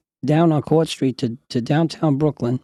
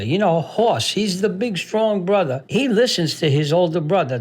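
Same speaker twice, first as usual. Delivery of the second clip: enthusiastic grandma; 5 semitones higher than usual. Retold or imitated. Grandma praising her favourite show.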